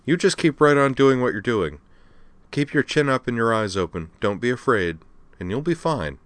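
a brash admiral rallying youngsters; tough admiral Aya. Acted. Aya voiced in read story.

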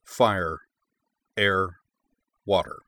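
grand, measured opening narration; epic fantasy narrator. A narrator's reading. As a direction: intone it like a legend.

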